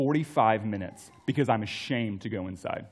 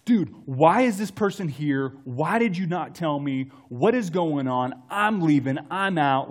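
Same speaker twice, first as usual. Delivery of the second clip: angry outburst; 3 semitones higher, 4 dB louder than usual. Retold or imitated. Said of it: "lit into him".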